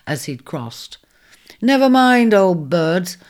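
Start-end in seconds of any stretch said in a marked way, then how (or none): 1.6-3.2 a sharp, louder snap; snapping. Acted. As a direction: bite off the words impatiently. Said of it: "he snapped".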